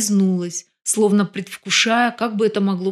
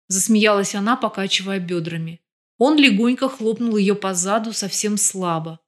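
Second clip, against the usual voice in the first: ordinary delivery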